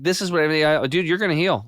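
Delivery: like you just found the answer to everything; excited retelling. Retold or imitated. Excited retold quote to friend.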